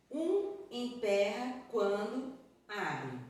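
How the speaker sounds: slow, "Um", "emperra", "quando", "abre" set apart; word-by-word reading. Shown as a demonstration. Teacher analysing a poem piece by piece, slow separated words. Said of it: "vamos analisar trecho por trecho".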